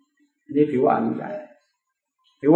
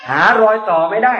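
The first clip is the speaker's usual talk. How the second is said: rising seamless demo; 6 semitones higher than usual. Shown as a demonstration. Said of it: "มันต่อเนียน".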